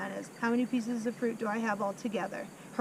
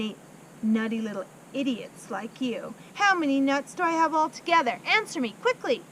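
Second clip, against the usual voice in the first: bully him with every word; ranting headmistress. Acted. Headmistress rants insults at pupil.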